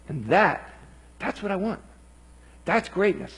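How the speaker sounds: a hint of a frustrated but patient Lord; Jesus speaking. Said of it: "Jesus says".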